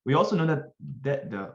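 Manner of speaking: stuttering over the words; tripping on the words with a stutter. Real, not acted. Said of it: "I'm having, like, a stutter".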